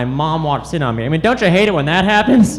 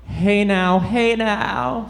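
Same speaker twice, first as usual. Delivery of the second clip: hungry horse; 4 semitones higher, much slower than usual. Acted. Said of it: "the speaker doing an impression of an impatient and hungry horse".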